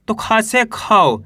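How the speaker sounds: खा से खी slowly, long ee in खी; slow demo. Shown as a demonstration. Teacher slowly showing students खा becoming खी. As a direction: spell it out for pupils. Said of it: "औ की मात्रा है".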